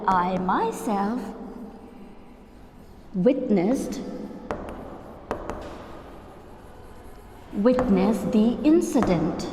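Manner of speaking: slow, with long pauses between words; teacher reading the model sentence slowly; slow example sentence. Shown as a demonstration. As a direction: spell the example out word by word.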